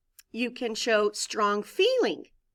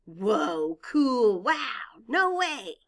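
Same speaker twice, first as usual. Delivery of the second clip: series of eager exclamations; excited exclamations; much slower than usual. Shown as a demonstration. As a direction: call them out like amazed kids. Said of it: "sentences that show excitement".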